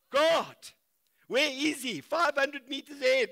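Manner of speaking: loud and high, at full force; preaching shout. Acted. Preacher answering his own question, shouting. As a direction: call it out to the crowd.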